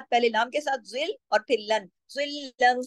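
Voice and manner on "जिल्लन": जिल्लन with thick first letter, doubled light l; heavy za. Shown as a demonstration. Teacher drills heavy beside light, जिल्लन recited slowly. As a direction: thicken the z of जिल्लन, hold the thin l. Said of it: "ज़ा को मोटा".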